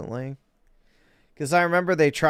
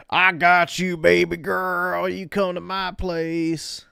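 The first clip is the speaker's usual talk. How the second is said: smooth guy offering; 6 semitones higher, 5 dB louder than usual. Retold or imitated. Streamer mocking men answering her video, higher mock smooth-talk. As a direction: imitate a guy promising to take care of her. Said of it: "How many people do you think are like".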